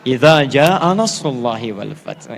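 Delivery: slow, low Quranic recitation. Shown as a demonstration. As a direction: recite the verse carefully. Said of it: "Minta dibaca An-Nasr".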